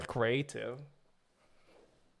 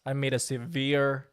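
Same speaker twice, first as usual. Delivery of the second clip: mock apology video; 4 dB quieter than usual. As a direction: parody a solemn celebrity apology video. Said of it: "You know those, like, sigh".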